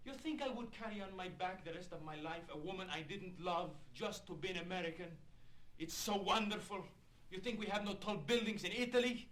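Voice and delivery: ordinary talk, nothing marked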